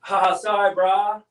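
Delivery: a playful California bruh; mock California accent. Finishing his California demo for viewers with a mock California accent. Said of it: "That's my California accent".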